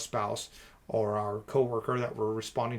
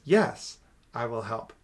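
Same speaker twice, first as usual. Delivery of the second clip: raised "Yes" with a calmer, lower finish; intonation says yes; 3 semitones lower than usual. Shown as a demonstration. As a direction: lift "Yes", pause, settle down on "I will help". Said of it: "And the intonation says".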